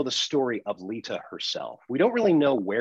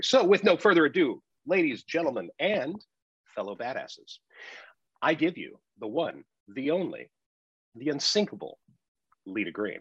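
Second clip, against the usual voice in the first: announcer intro; 3 semitones higher than usual. Pretend. Introducing the host grandly.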